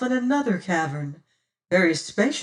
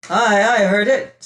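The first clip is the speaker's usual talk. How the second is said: fierce loud declaration; 3 semitones higher, 9 dB louder than usual. A narrator's reading. Martin answering the unseen whisperers, fierce and loud. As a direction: call it out boldly to the hidden whisperers. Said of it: "fierce and loud".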